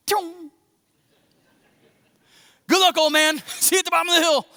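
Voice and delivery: high, laughing mock farewell; cheeky Isaac brushing off his father. Isaac cheekily ditching his old father, laughing. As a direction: toss it off with a grin and run. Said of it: "if I was Isaac".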